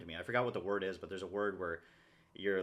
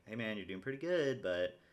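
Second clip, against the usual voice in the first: slightly raised self-coaching voice, a bit emphatic; lightly put-on encouraging coach; inner coach voice; 2 semitones higher, 4 dB louder than usual. Shown as a demonstration. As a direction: coach yourself kindly but push a little. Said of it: "talk to myself in this voice".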